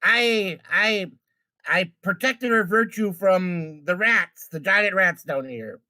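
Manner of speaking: flustered, halting excuse; stuttering. Acted. Good fella excusing himself to the angry father, stuttering. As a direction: stumble through a feeble self-defence. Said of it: "Goodfellow will stutter through".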